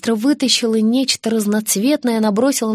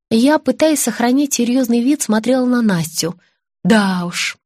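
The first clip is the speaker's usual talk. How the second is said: plain reading voice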